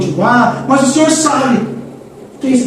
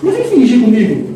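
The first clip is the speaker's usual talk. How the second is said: God calling out; 6 semitones higher than usual. Retold or imitated. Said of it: "Deus fala assim".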